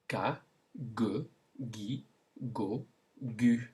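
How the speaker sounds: ga, gue, gui, go, gu as separate syllables with hard g; g sound drill. Shown as a demonstration. Teacher shows the g with five vowels, g sound drill. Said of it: "Now with the g sound then".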